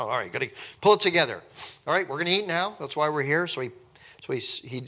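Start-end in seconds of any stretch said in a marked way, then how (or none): 0.0-3.5 pulling himself together. Retold or imitated. Joseph composing himself.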